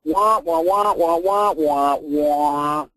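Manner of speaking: droning, wordless wah-wah; long drawn-out final wah; Peanuts grown-up wah-wah. Shown as a demonstration. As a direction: mimic meaningless adult babble as trombone wahs. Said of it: "Look what his website says".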